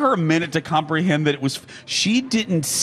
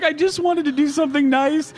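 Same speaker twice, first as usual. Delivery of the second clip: tag-along pleading; 11 semitones higher than usual. Retold or imitated. Teller pleads while still laughing.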